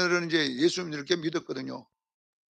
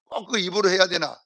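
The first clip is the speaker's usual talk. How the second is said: Gyeongsang man; 5 dB louder than usual. Retold or imitated. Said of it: "그럼 남자가 뭐라는 줄 아세요?".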